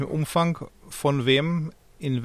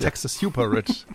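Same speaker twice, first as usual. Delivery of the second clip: lightly voiced mock slogan; mock Bernie, second take. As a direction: repeat it in a mild imitation. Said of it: "sagt er jetzt".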